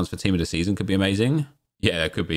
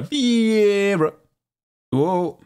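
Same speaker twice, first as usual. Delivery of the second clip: surprised; 11 semitones higher, 3 dB louder, much slower than usual. Real, not acted. Surprised at pull.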